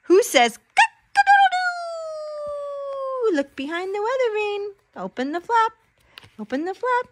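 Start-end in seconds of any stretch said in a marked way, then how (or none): 0.0-3.3 slow dramatic question. Acted. Rooster page, drawn-out.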